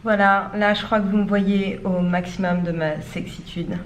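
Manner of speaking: talking with a stiff mouth; can't open mouth. Real, not acted. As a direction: lips barely moving. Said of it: "je peux pas ouvrir la bouche".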